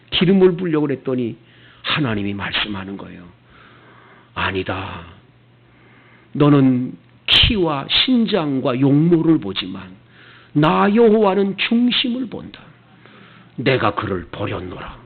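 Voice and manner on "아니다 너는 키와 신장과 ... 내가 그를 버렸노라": voice of God. Acted. God rebuking Samuel, low and solemn. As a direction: speak low and grave as God.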